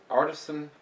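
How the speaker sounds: Artisan, said AR-tuh-sun; corrected pronunciation. Shown as a demonstration. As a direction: stress the first syllable of Artisan. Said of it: "it's Artisan".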